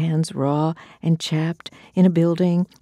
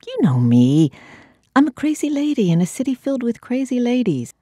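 manic refrain; 8 semitones higher, 3 dB louder, faster than usual. Acted. Repeated refrain, faster higher.

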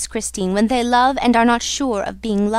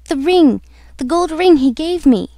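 higher, louder cry of loss; distressed exclamation; 6 semitones higher, 5 dB louder than usual. Acted. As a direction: blurt it out in dismay. Heroine discovers the ring is lost.

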